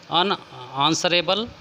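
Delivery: slow, careful dictation of अनआंसरेबल; teacher slowly drawing out अनआंसरेबल for students; slow, drawn-out word. Shown as a demonstration. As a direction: stretch out अनआंसरेबल syllable by syllable. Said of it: "जिसका उत्तर दिया जा सके".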